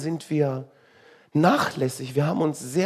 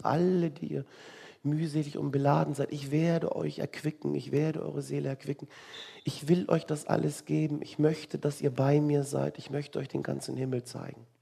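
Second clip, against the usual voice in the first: soft, tender promise, trailing quieter; gentle reassurance; 6 dB quieter than usual. Acted. Jesus promising rest to the weary, gently reassuring. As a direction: offer comfort softly, as a gift.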